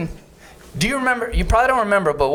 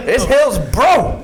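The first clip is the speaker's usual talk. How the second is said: "Hillsborough" said slowly in a northern accent; slow, proud northern "Hillsborough"; 5 semitones higher, 3 dB louder, slower than usual. Real, not acted. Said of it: "that's how they say it in my neighborhood".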